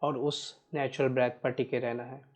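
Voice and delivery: measured, even meditation guide with long pauses; guided meditation. Real, not acted. Guiding listeners to watch each breath, unhurried meditation voice. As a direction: steadily guide listeners through breath awareness.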